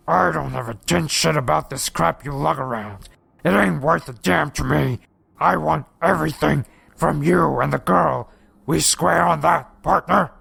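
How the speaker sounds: creature's Texas drawl, rising toward the end. A narrator's reading. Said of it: "slow Texas drawl".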